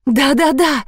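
tearful, desperate agreement; insistent repeating. A narrator's reading. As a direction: repeat it through tears. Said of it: "твердила Алла".

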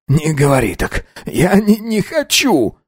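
put-on a scared boy begging not to die; rising fearful plea; desperate pleading. A narrator's reading.

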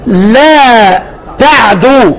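لا تعدوا stretched very slowly; slow recitation demo. Shown as a demonstration. Teacher demonstrating the reading slowly. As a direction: draw out لا تعدوا syllable by syllable. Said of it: "طيب".

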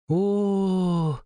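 put-on high excited child's "oh"; little girl voice. A narrator's reading. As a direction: squeak like a delighted kid. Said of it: "услышала она позади себя".

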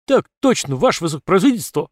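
loud, fast but bored answer; dull barked reply. Acted. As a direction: bark it back half-heartedly. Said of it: "рявкнул поскучневший строй".

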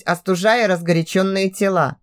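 ordinary delivery, nothing marked

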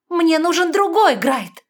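high, loud, slow snap; barked. A narrator's reading. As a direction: bark the demand. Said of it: "наконец рявкнула она".

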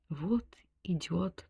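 hushed slow whisper; whispered thought. A narrator's reading. Sonechka muses to herself in dark garden, whisper. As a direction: breathe the thought almost silently. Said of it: "думала Сонечка".

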